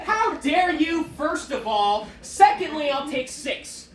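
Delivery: hammed-up outrage; mock indignation. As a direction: play offended, slowly. Mock indignation at burrito offer.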